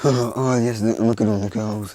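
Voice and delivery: loud, gleeful gawking; excited peeper. Acted. Boy peeking at the girls through the wall, excited. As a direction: blurt it out in mock delight.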